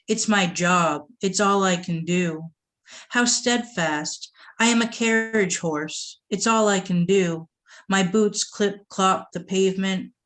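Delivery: measured, deliberate poem delivery; spoken-word recital; poetry reading. Acted. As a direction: read it like a performed poem, weighing each line. Reads pantoum aloud.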